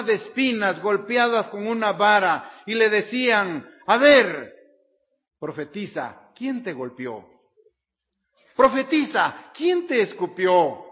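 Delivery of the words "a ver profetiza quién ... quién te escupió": jeering taunt, breaking out loud then dipping; mocking. Roman soldiers jeering at their beaten prisoner, mocking. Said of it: "En un son de burla".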